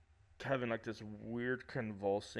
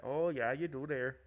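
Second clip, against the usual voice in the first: mock Minnesota accent; 4 semitones higher, 3 dB louder than usual. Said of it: "I have a friend from Minnesota that I do that to".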